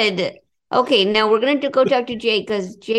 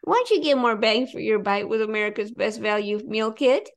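ad read; 3 dB quieter than usual. Acted. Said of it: "Our ad read".

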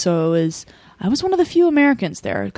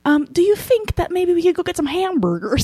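put-on high Southern accent sliding into a British lilt; pitched-up Southern-British kid brother voice; little brother's accent; 10 semitones higher than usual. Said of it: "He has, like, a Southern accent that goes into".

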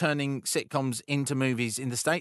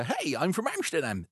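chirpy, slightly higher mock-Amsterdam accent; chirpy Dutch accent; 4 semitones higher than usual. Shown as a demonstration. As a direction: do a jolly put-on Dutch accent. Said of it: "not racist because it's chirpy".

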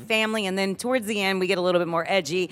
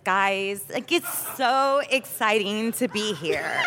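Drew Barrymore impression; slower than usual. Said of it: "Drew's, she's like this".

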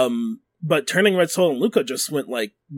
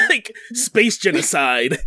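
laughing; 3 semitones higher, slower than usual. Real, not acted. Laughing while making point.

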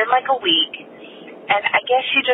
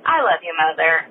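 sweet daughter; 2 semitones lower than usual. Retold or imitated. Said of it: "being very sweet".

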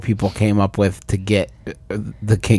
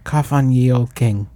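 put-on old-timey speech; 3 dB louder than usual. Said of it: "That's how old-timey people talk".

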